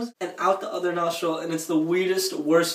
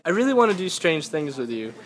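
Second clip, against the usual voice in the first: imitating a completely serious tone; dead serious. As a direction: say it level, as if no joke at all. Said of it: "in the most serious tone".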